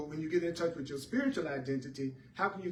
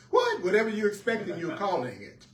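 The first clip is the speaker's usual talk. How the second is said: sudden high squeaky what; a squeaked, high what; mock bafflement; 4 semitones higher, 4 dB louder than usual. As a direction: yelp it like you can't believe it. Repeats the mock-baffled echo.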